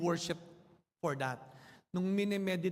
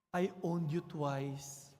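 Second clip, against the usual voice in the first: tender; 2 semitones lower, slower than usual. Acted. Boy hugging his boat.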